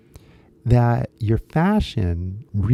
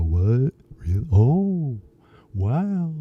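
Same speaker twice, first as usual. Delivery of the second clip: higher, drawn-out "oh, wow" of dawning amazement; excited realization; 3 semitones higher, much slower than usual. Retold or imitated. American reading a puzzling shirt, excited realization. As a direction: imitate someone suddenly getting it. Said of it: "they kinda get excited".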